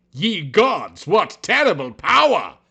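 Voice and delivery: high, loud hammy awe; melodramatic exclaim. Acted. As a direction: gasp it like old melodrama.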